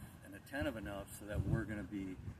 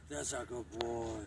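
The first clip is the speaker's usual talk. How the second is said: slow, drawn-out good-dog praise; praising the dog; 2 semitones higher, slower than usual. Real, not acted. Trainer rewarding a nervous dog, slow praise.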